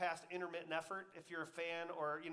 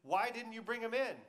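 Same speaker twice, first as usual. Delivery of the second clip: loud, higher-pitched indignant demand; 6 semitones higher, 8 dB louder than usual. Acted. Priests to guards back without Jesus, demanding. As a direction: demand an answer, raised voice. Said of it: "leading priests and Pharisees demanded".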